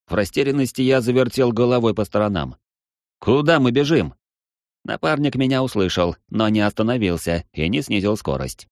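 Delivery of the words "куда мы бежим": shouting question. Acted. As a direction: call out while running. Shouted question while running.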